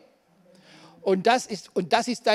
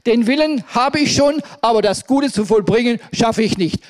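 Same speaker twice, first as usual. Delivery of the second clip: crying out Paul; 5 dB louder than usual. Acted. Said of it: "da schreit er oder sagt".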